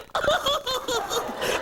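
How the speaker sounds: high, pulsing imitation sobs; mock sobbing. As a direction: demonstrate hammed-up blubbering. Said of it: "Yeah, I was like this".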